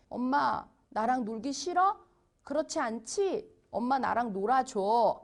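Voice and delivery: put-on mild, unangry pleading child; calm child's request. Child asking mom to play without yelling, calmly. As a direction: ask nicely, lightly voicing a kid. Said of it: "화내고 소리 지르지 않는 방법으로".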